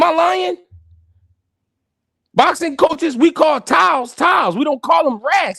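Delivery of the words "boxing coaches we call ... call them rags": higher, shouting the point; fired-up protest; emphatic raised voice. Real, not acted. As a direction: insist hard to the chat. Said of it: "insisting to chat".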